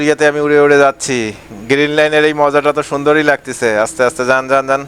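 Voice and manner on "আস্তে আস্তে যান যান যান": a lightly voiced bus helper, a touch lower, chanting directions; bus helper calling. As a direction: guide the bus in like a helper on the footboard.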